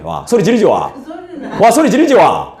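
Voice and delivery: ordinary delivery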